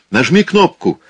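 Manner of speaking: high, loud called command; shouting. A narrator's reading. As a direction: call it out to her inside the machine. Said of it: "закричал он".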